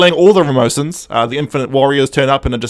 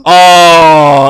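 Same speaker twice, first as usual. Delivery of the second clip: mock dismayed cry; 11 dB louder than usual. Acts sudden realisation at the Master's tardis.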